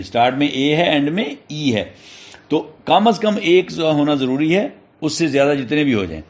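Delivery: normal talking voice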